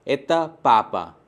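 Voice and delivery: एता पापा slow and falling; slow falling statement. Shown as a demonstration. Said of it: "दूसरे sentences पे".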